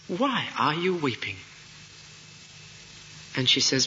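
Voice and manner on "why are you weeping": mildly surprised question, starting high; tone of surprise. Acted. Angel asks the woman why she weeps, mildly surprised. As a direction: ask it in gentle surprise, pitch lifted then falling. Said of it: "Can you get the tone of surprise?".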